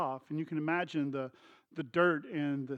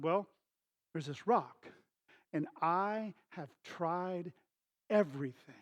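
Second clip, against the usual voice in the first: slow, halting, softer explanation; mildly acted, deliberate admission of defeat; frustrated son; 6 dB quieter than usual. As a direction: imitate weary frustration, spacing out the words. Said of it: "he can tell the frustration".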